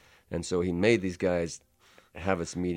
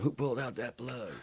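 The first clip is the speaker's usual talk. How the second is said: higher-pitched imitation of an indignant challenge; retold challenge; 6 semitones higher, 3 dB quieter than usual. Guy running out to ask who pulled the plug, retold challenge. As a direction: act out someone demanding an answer. Angry man runs out about plug.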